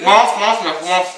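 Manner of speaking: loud high chant of mange; insistent urging. Real, not acted. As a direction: push him loudly to eat. Urging friend to eat chili. (insistance bruyante)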